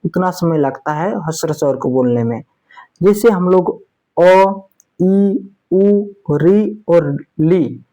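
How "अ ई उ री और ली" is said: अ, ई, उ, री, ली as short one-beat vowels. Shown as a demonstration. Sanskrit teacher demonstrating short vowels अ, ई, उ, री, ली, briefly sounded. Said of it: "इसका उच्चारण शीघ्र होता है".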